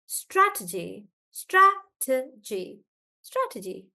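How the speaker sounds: "strategy" slowly, syllable by syllable, STRA strongest; stress on STRA. Shown as a demonstration. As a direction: spell out "strategy" as STRA-tuh-jee. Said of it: "So stress is on stra".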